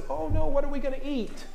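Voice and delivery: high-pitched little "oh no" worry; mock fretting. Israelites in the wilderness without food, mock fretting. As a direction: mimic a silly panic, voice lifted.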